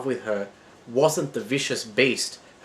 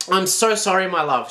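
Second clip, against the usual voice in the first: sobbing; 9 semitones higher, 7 dB louder than usual. Acted. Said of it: "she sobbed".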